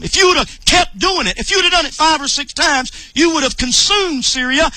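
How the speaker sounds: mildly angry prophet, pitch lifted; retold anger. Prophet rebukes the king for stopping too soon, mildly angry. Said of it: "got mad with him".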